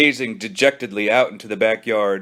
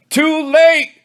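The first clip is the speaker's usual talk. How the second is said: high, louder triumphant yell; gleeful victory shout, higher; 6 dB louder than usual. Acted. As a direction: crow it with glee. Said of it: "yelled Billy gleefully".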